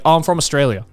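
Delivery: lightly exaggerated Australian accent; broad Australian accent. Customer telling shop assistant his origin, broad Australian accent. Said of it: "in the most Australian accent possible".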